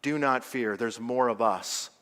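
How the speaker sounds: low, soft, solemn close; hushed reassurance. Real, not acted. Preacher tells friends not to fear, hushed. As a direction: let it sink low and quiet for the congregation.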